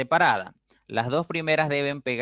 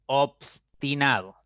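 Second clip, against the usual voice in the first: whispered, slow "obstinado"; whispered example word; 3 semitones higher, slower than usual. Shown as a demonstration. Teacher whispering the example word to the class. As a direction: breathe "obstinado" out slowly.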